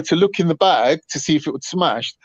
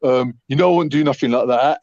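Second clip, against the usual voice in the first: lower, sheepish mock of her promise; meek girlfriend; 3 semitones lower than usual. Girlfriend falsely promising, lightly voiced as meek. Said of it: "she was like".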